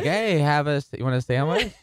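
mock friendly welcome. Comic imitating Huntsville locals offering food, mock friendly. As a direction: play an over-welcoming local.

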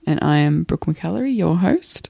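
hoarse from the flu; rough, croaky sick voice. Real, not acted. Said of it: "If you'll excuse my croaky voice".

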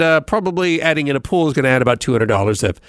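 ordinary talk

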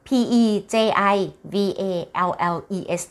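letter by letter, each one separate; spelling out. Shown as a demonstration. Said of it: "สะกด". (สะกดช้าๆ ทีละตัวอักษร)

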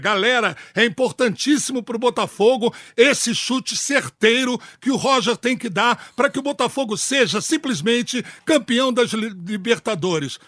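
play-by-play. Pretend. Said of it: "narrador por um dia".

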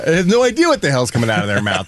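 ordinary talk, nothing marked

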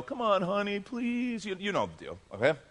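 lightly pleading, coaxing his wife; a hint of a begging husband. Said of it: "I'm doing the, you know".

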